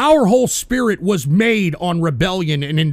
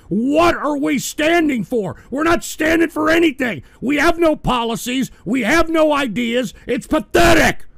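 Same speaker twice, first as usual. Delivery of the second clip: exasperated rant; 5 semitones higher than usual. Real, not acted. Ranting about the party's emptiness.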